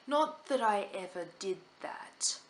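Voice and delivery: slow guilty whisper; whispered aside. Real, not acted. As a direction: whisper it like a confession. Guilty joke about cheating.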